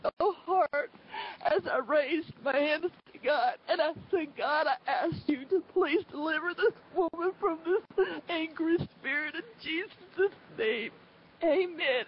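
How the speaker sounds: high, choked-up prayerful voice; tearful. Real, not acted. Believer asking God to deliver this woman, tearful pleading. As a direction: plead through welling tears, pitch lifted.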